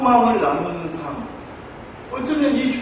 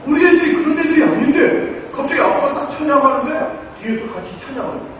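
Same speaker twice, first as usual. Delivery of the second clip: excited; 5 semitones higher, 4 dB louder than usual. Real, not acted. Excited retelling of kids.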